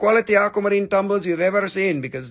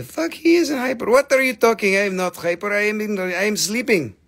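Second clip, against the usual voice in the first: hyper; 5 semitones higher than usual. Pretend. Mock denying being hyper.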